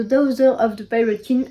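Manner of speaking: English title said with a heavy French accent; French accent on English words, a bit embarrassed; clumsy French-accented English. Real, not acted. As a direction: stumble through the English title, self-consciously French. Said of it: "avec mon accent, euh, pourri".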